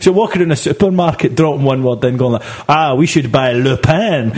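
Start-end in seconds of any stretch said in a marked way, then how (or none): 2.7-4.3 imitating a comedy French accent; hammy comedy French accent. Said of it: "in this French accent".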